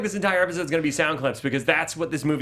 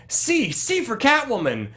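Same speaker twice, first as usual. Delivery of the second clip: mock dramatic Batman line; 7 semitones higher, slower than usual. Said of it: "quoting the movie clip".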